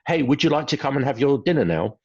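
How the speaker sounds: mock overly polite parent; overly polite question. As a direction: sweeten it into a polite offer. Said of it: "you may say something like".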